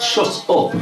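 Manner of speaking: hissed under the breath; whispered shut up. Retold or imitated. Uncle hushing nephew at a funeral, whispered. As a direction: shush him in church. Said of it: "I said".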